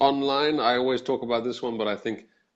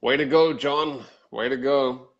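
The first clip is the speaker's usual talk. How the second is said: sarcastic. Shown as a demonstration. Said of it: "in a sarcastic way".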